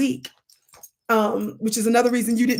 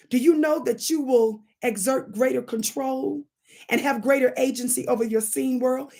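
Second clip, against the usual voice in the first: normal talking voice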